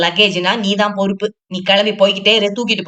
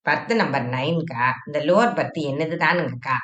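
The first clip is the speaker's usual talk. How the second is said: a touch lower and softer, polite traveller; gently lowered voice asking to be seated; lightly voiced Shenbagam; 3 semitones lower, 4 dB quieter than usual. Shenbagam asking the seated woman to move, polite and low.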